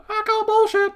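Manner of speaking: high, loud indignant shout; outraged call-out. Real, not acted. Reader shouting down the story's claim, high and loud. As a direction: yell your objection at the page. Narrator objecting to the text.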